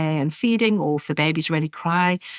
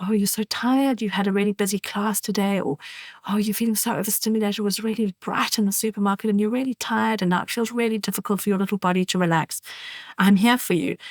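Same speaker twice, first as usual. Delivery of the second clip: soothing demo; 2 semitones higher than usual. Shown as a demonstration. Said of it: "you can say".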